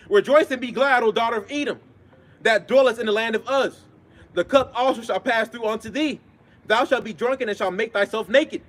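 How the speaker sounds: ringing scripture proclamation; scripture reading. Acted. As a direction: proclaim each verse with drawn-out line endings. Reads scripture aloud.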